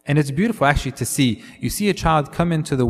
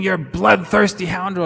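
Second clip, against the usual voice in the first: raised, higher mock insult; hammed-up jeering curse; cursing insult; 5 semitones higher than usual. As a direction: spit it at the king like a street heckler. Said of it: "starts cursing the king and saying".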